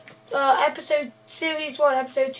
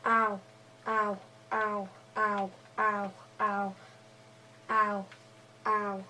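pained ows; 3 semitones lower, 9 dB quieter than usual. Acted. Pushed into ravine, hitting head.

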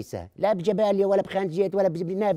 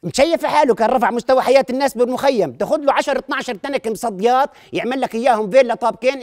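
high, loud mock bragging; excited boasting; 4 semitones higher, 5 dB louder than usual. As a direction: brag it up with excitement. Boasting about father tinsmith.

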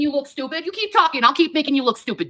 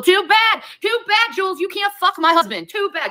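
angry shout; 5 semitones higher than usual. Real, not acted. Yelling at rival during rant.

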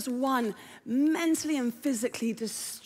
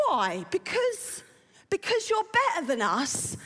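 Essex mum; 4 semitones higher than usual. Acted. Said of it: "And her mum says".

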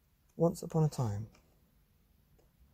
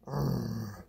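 low growling urgh; monster growl; 3 semitones lower than usual. Acted. Monster growling to itself, low urgh. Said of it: "they said".

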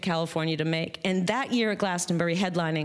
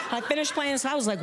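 ordinary delivery, nothing marked

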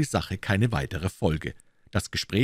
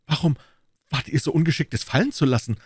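higher, emphatic Gascon comeback; retorting; 7 semitones higher, faster than usual. A narrator's reading. D'Artagnan turning the blame on Aramis, retorting. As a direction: throw the question straight back. D'Artagnan throws the question back.

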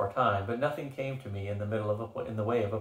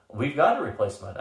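exploding; 3 semitones higher, 4 dB louder than usual. Acted. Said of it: "I exploded suddenly".

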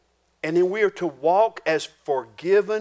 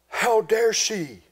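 slow, drawn-out mock outrage; mock indignation; 3 semitones higher, much slower than usual. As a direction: play the scandalized preacher, stretching each word. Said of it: "the preacher's there going".

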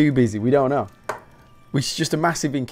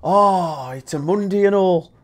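higher-pitched mock British moan; grumbling Brit; 6 semitones higher, slower than usual. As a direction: lightly imitate a Brit grumbling about the day. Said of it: "We follow it up with".

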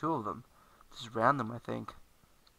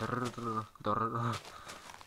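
rolled, garbled babble; mock tongue-tied noise; tongue-tripping gibberish. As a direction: trip over the tongue in a rolling blubber. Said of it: "I'm like".

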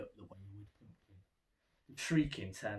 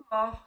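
sigh; 13 semitones higher, 12 dB louder than usual. A narrator's reading. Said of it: "Splat sighed".

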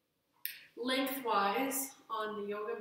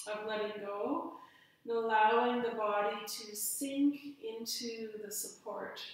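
guided relaxation. Real, not acted. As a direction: guide them unhurriedly into rest, phrase by phrase.

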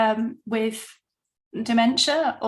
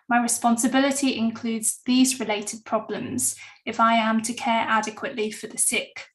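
reading the oath aloud. Acted. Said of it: "So I'm just gonna read them out".

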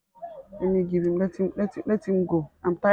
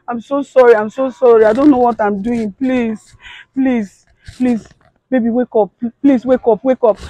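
tearful pleading; 2 semitones higher than usual. Acted. Wife begging her dead husband to wake, tearful plea.

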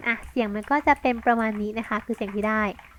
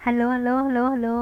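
mic test. Shown as a demonstration. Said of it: "ฮัลโหล เทส".

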